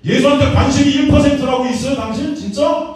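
high, loud indignant challenge; retold shout. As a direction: demand it, outraged. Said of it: "제가 소리쳤어요".

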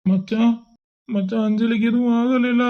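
fearful teary plea for good news; crying. Acted. Asking his friend whether Anjali is safe, softly crying. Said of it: "நீ முத அழுறத நிறுத்துடா".

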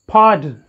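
"pardon" with a puff of air on the P; aspirated P. Shown as a demonstration. Teacher repeats the model word, aspirated P in "pardon". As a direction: stress the first syllable of "pardon", popping its P. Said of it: "accented or stressed. The sound is".

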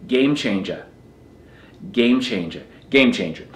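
put-on Boston accent, game changer. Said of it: "I'll put on my best Boston accent for this one".

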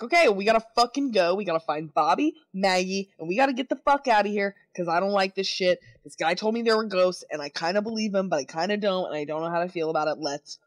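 quick, pressing, dead serious; urgent and serious. Retold or imitated. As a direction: hurry everyone out, no joking. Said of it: "he's being urgent and real serious".

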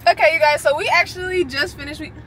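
lisping around a mint; mint in mouth. Real, not acted. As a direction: talk with a mint in your mouth. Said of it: "if I sound like I'm talking with the lisp".

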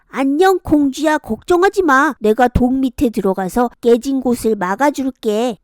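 put-on a big toad reassuring a girl; friendly toad.

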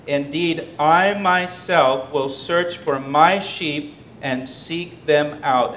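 slow, weighty proclamation of the verse; slow emphatic reading. Acted. Preacher reading God's promise to search for sheep, slow and weighty. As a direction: lean on every word, slowly.

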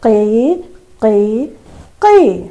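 put-on chirping cry of a baby bird. Shown as a demonstration. Teacher shows class how the chick cried, bird cry. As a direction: mimic a chick's cry, three short calls. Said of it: "പക്ഷിക്കുഞ്ഞ് കരഞ്ഞു".

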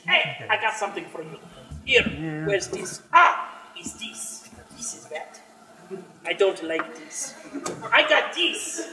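a sly goblin merchant rummaging for something; goblin peddler. Acted. Goblin merchant rummages for a gift, sly. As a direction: hawk it like a shifty little goblin. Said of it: "I play goblin".

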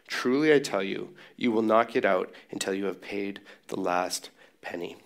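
measured, solemn reading of the text; scripture reading. Acted. Pastor reading scripture to the church, measured and solemn. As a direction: read the passage with weight.

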